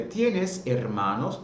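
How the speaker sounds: Tienes said slowly, stress on Tie; slow clear demo; tú question; slow tú form. Shown as a demonstration.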